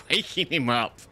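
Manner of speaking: words breaking into a laugh. Real, not acted. Telling Sav about waking him up, laughing. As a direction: crack up mid-phrase. Cracks up retelling her dream.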